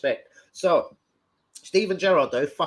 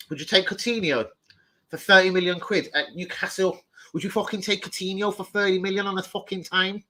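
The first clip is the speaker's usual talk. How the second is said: put-on Scouse accent; 5 semitones higher than usual. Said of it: "That's a Scouse accent, isn't it?".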